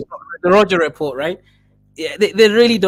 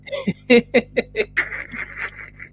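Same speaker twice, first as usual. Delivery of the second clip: high laugh; 8 semitones higher, 4 dB quieter than usual. Real, not acted. Laughing at his own joke.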